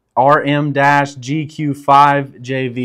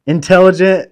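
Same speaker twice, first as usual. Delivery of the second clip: struggling over "intelligent"; stumbling read; 4 semitones higher, 6 dB louder than usual. Real, not acted. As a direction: sound out "intelligent" haltingly, like a hard word. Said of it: "took me so long to read intelligent".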